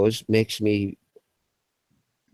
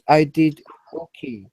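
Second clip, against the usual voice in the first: high, slower, lightly put-on voice; Athena impression; 3 semitones higher, slower than usual. The speaker still imitating Athena, lightly voiced and higher. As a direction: keep the girlish Athena voice. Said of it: "It sounds like her, doesn't it?".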